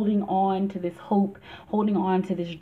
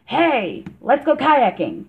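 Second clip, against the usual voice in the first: breezy chirp; 5 semitones higher, 6 dB louder, slower than usual. Acted. Inner voice acted as casual chirp.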